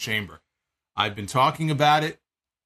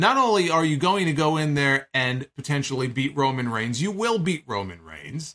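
ordinary delivery

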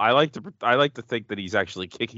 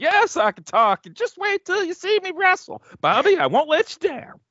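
very high-pitched genteel Southern gentleman voice; 4 dB louder than usual. Voicing the wrestler the Red Rooster answering whether he can talk, as southern gentleman. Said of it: "I don't know why I made him sound like some southern gentleman there".

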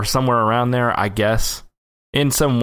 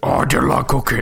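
monster character voice. Trying out an impression for friends: Tim Allen impression. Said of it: "Tim Allen is Cookie Monster".

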